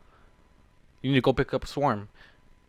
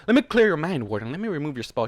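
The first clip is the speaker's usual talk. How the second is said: light purr; 3 semitones higher, 4 dB louder than usual. Acted. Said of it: "She purred".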